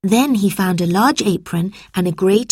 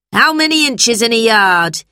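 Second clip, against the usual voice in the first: raised, commanding question; quizzing teacher; 5 semitones higher, 4 dB louder than usual. A narrator's reading. Teacher tests George, demanding raised voice. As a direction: fire the question higher in pitch.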